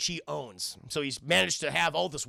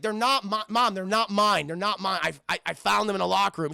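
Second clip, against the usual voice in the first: put-on protesting teen; 4 semitones higher, 6 dB louder than usual. Acted teen protesting to mom.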